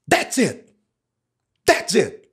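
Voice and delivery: high exclamation with punch; excited, animated. Shown as a demonstration. Teacher demonstrating an animated cry to students, excitedly. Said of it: "Com bastante potência na voz".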